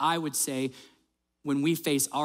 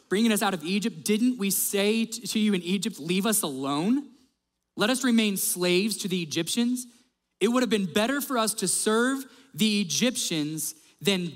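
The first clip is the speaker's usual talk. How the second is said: acted-out grumbling, pitched up; higher, emphatic rhetorical questioning; sarcastic complaint; 5 semitones higher than usual. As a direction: protest indignantly as the ungrateful crowd. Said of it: "Listen to this sarcasm".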